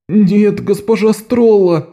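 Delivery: высоко и медленно, «Стролла» протяжно с падением; простонать в притворном отчаянии; стон. A narrator's reading. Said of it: "простонал он". (Галда стонет перед госпожой)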